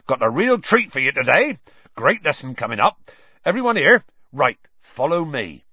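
eager giant calling his class; cheerful Hagrid. A narrator's reading.

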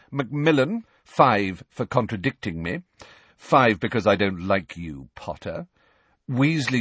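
lightly voiced smug bully; gloating Malfoy. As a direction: relish every point taken. Malfoy gloating, docking points.

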